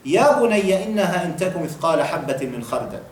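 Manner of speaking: rapid Arabic verse recited; brisk Quranic recitation; quick Quran recitation. Acted.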